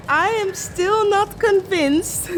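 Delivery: giggling through the words; laughing. Real, not acted. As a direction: laugh while saying it. Laughing about the junk.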